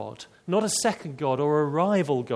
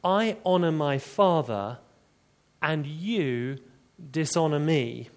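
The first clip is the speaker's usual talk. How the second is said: "I" and "you" set firmly against each other; deliberate, with pauses around "you"; quoted claim, measured and emphatic. Retold or imitated. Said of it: "an equally emphatic claim".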